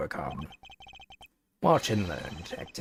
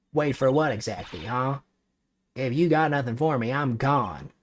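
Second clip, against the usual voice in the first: nosy Southern gossip voice; Southern reporter voice; 3 semitones higher than usual. Acted.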